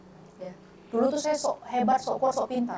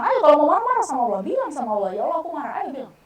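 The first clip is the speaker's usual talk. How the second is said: higher, louder dare, fading at the end; daring challenge; 5 semitones higher, 4 dB louder, faster than usual. Retold or imitated. Speaker challenging her friend to vent at Allah, loud dare. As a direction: push them to say it. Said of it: "Padahal saya tantang".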